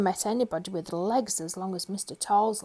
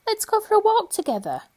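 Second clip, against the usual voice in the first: high squeaky suggestion; tiny voice suggesting; 12 semitones higher, 5 dB louder than usual. Acted. Mister Small cheering up Mister Tall, high squeaky voice. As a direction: chirp it up high like a tiny man. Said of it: "he suggested".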